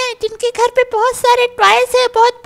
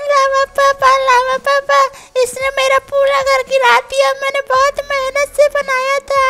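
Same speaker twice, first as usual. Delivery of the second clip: crying to dad. Acted. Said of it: "अरे मेरे बच्चे रो मत".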